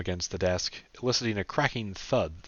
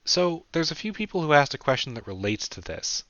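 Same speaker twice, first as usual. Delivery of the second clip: put-on higher young woman's voice; Sarah's voice; 8 semitones higher, 3 dB louder than usual. A narrator's reading. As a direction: pitch it up for Sarah.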